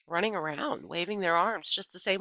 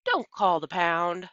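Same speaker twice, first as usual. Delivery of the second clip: hollering, slow and firm; 6 dB louder, slower than usual. A narrator's reading. Girl loudly claiming the dog before the manager. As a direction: plant your feet and claim him. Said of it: "I hollered".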